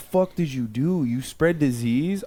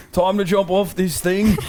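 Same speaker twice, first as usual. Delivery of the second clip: laughing through a mock British accent, higher on innit; playful fake British frog; giggly put-on British accent; 5 semitones higher than usual. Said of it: "like, a British accent".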